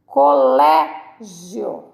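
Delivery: "Colégio" slowly as co-LÉ, pause, gio; "Colégio" stretched, with a gap before joined gio; syllable breakdown. Shown as a demonstration. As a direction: draw out "Colégio", keeping gio as one beat. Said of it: "Essa não separa".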